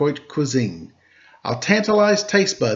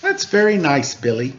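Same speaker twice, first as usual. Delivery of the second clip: 1 sweet teacher. Acted. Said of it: "sweet Missus Krupp said".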